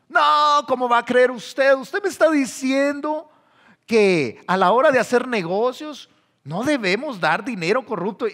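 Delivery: loud, high, shocked disbelief; incredulous objection, pitched high and loud; indignant protest. Acted. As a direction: scoff at him for being so naive. Acted indignant objection to corruption.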